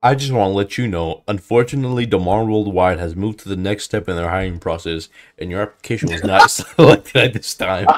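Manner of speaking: low, level rejection-notice voice; mock formal notice. Caller turning down a job applicant, mock formal. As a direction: deliver bad news like an official letter.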